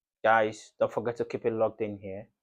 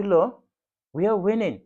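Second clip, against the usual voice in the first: with my chest; 6 semitones higher, 4 dB louder than usual. Retold or imitated. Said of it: "I say with my chest".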